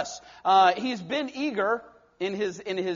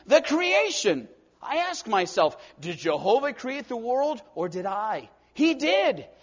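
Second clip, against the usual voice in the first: exclaiming; 3 semitones higher than usual. Acted. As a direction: cry out in awe. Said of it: "he exclaimed".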